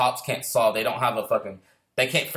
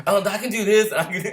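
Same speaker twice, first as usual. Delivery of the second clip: higher-pitched mock kid voice; a hint of a pleading kid, pitched up; imitated eager child; 7 semitones higher, 4 dB louder than usual. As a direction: lightly imitate a child insisting. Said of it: "eleven, ten-year-old trying to tell me".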